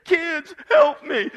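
slow, high hammed-up shout; calling out to your kids, mock shout; mock shout for help. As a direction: yell to the kids for rescue. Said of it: "And you say".

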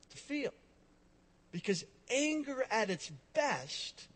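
ordinary talk

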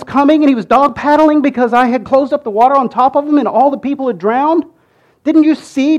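high, loud, building disbelief as each question piles on; exasperated God. Pretend. God scolding the ungrateful Israelites, exasperated and pleading. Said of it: "I can just see God going".

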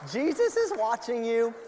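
loud high parrot voice. Acted. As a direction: squawk it like the parrot. Repeats parrot line.

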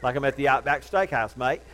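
put-on jokey Australian accent. Preacher joking about his Bible app, mock Australian accent. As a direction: put on a playful Aussie accent. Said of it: "read it in an Australian accent".

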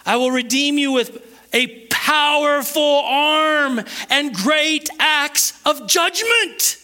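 high, slow, building scripture proclamation; forceful preaching. Acted. Preacher proclaims God's redemption to the congregation, forceful. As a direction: stretch the big words, rising in force.

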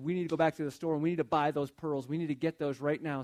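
mildly urgent imitation of an excited girl; retold eager plea; excited little girl. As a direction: push it along like an eager kid, a touch excited. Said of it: "she was all excited and said".

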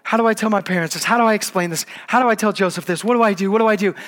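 Mary imagined near tears, pleading; frightened girl asking what to do, lightly voiced; mock distraught. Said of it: "Maybe she starts crying and saying".

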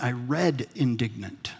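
"read" drawn out and stressed. Retold or imitated. Preacher correcting questioners about his word, stress on "read". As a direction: lean slowly on "read" to correct them.

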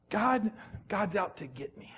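congregant's private fear, said softly; voiced inner thought. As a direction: voice the fearful thought to yourself. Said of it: "We think things like this".

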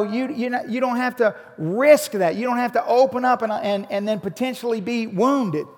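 loud, driving sermon delivery; loud pulpit preaching; fervent preaching. Acted. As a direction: preach it hard to the congregation. Preaching at full force.

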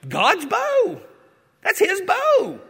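high, thrilled proclamation; awed excitement. Acted. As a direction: marvel out loud at God's bow. Preacher voices proper rainbow reaction.

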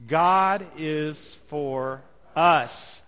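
slow, measured words landing on a drawn-out "us"; stress on us. Shown as a demonstration. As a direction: set "us" apart at the end and hold it. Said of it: "emphasize a different word".

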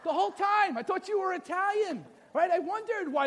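high, full-voiced astonishment; big hammed-up indignant surprise; mock outraged disbelief. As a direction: exclaim it like a betrayed husband. Husband repeats his shock, played bigger.

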